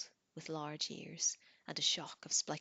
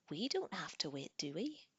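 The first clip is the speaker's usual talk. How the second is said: pouting. Acted. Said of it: "Tanith said with a pout".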